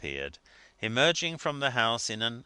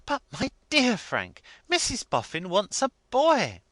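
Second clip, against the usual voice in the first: higher, louder eager wife; lightly voiced earnest wife; 13 semitones higher, 7 dB louder than usual. A narrator's reading. Wife correcting her husband, high and eager. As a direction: press the point eagerly.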